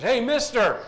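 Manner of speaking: loud, high parrot squawk. Acted. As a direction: yell it like a cheeky parrot. Parrot calls customer again.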